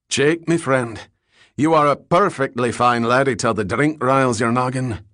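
put-on a light Scottish accent, amiable; a hint of Scots brogue, easygoing and friendly; lightly voiced Scotsman, good-natured Scots accent. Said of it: "He had a thick Scots accent".

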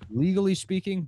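mock legal voice.

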